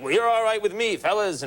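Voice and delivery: high, buddy-buddy answer; host answering the firemen, mock macho chummy; chummy reply. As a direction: return the compliment like one of the guys. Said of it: "And I'm like".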